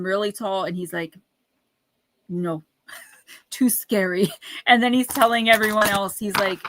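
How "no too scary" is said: slow, laughing mock Russian accent. The doctor refusing the book, in a light mock Russian accent. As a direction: drag out too scary in a bad Russian accent. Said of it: "it's a horrible accent".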